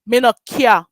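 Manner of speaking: Jamaican patois, mock dismissive; lightly voiced Jamaican shrug-off; patois quote. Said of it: "your office say".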